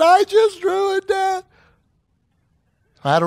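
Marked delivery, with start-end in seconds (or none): 0.0-1.4 put-on high, loud, slow cry of a boy at the end of his rope; frustrated child yell. Son shouting back at his father, frustrated. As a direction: belt it out like an eight-year-old who's had enough. Son's outburst at dad.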